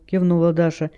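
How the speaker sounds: ordinary delivery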